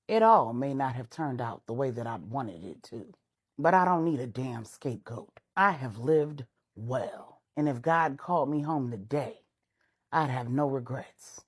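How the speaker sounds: low and resolute, refusing the blame; Idris's voice. Acted. Idris tells the Queen Mother he has lived well, low and firm. Idris speaks his final word.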